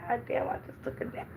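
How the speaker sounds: breathy whispered grumble about the noise; hushed irritated whisper; whispered annoyance. Retold or imitated. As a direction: mutter it under your breath, fed up. Annoyed at scratching neighbours.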